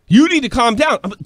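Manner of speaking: high, loud mock fury at a bar patron; incredulous outburst. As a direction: throw his words back at him in disbelief. Exploding at the patron.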